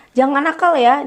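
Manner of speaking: a touch of a scolding parent. Shown as a demonstration. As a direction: lightly warn the child, don't be naughty. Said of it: "kalau kita ngomong ke anak".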